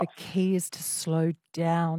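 slow, measured echo of advice; deliberately slowed down. Shown as a demonstration. Host echoing the caller's advice, deliberately slow. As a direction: draw it out slowly.

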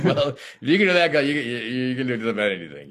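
pumping himself up after the dark role; excited self-talk. Retold or imitated. Actor amazed at himself, excited voice.

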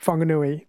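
Whanganui begun with an F sound; Māori WH as F. Shown as a demonstration. Host showing listeners Māori spelling, Whanganui said with an F. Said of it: "the W H is pronounced F".

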